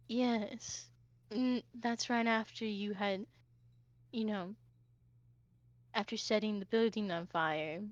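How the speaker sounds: soft, measured, long-suffering reproach; weary reproach. Acted. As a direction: list the grievances quietly, with halting pauses. Sarah wearily lists Hoshi's past misdeeds.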